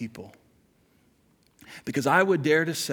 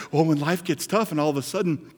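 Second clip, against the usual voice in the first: mock wife's dramatic gasp; 3 semitones higher, 12 dB louder than usual. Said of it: "She's like".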